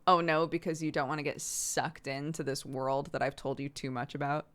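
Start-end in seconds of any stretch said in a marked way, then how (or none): 0.1-0.5 loud alarmed cry; mock horrified shout; mock dread. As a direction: recoil from the TV in mock panic. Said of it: "and I was like".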